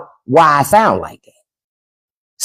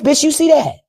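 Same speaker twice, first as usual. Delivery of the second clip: silent look voiced; 8 semitones higher than usual. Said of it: "That's what that is".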